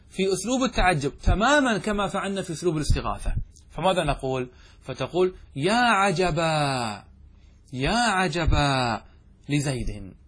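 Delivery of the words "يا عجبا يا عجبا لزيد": very slow, drawn-out cry of wonder; slow demo of an exclamation of wonder. Shown as a demonstration. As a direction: stretch it out as if amazed. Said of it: "هذا أسلوب تعجب".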